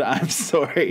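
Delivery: deadpan, slow reading of "I'm sorry"; a dull, slow reading of the lyric; slow monotone. Shown as a demonstration. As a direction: drag it out slowly in one flat pitch. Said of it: "slowly, monotonously read the word".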